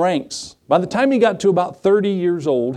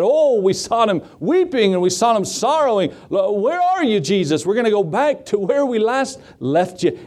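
higher-pitched worried searching, lightly acted; mock distress; 5 semitones higher than usual. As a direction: retell it as a mother's anxious lament. Acting out Mary searching for lost Jesus.

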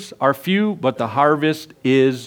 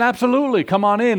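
lightly voiced eager boy, higher; a cheerful kid waving him in; boy's voice; 7 semitones higher, faster than usual. Preacher voicing the boy welcoming the visitor, higher and eager.

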